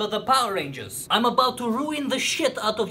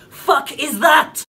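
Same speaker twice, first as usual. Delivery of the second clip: slow, loud, higher shout of disbelief; indignant yell, word by word; outraged shout; 5 semitones higher, 7 dB louder, slower than usual. Acted. Outrage peaks at the name.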